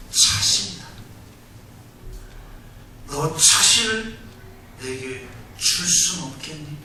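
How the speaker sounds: gentle voice of the Lord. Retold or imitated. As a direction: speak like a loving God calling a tired servant close. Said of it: "주님이 이렇게 말씀하셨대요".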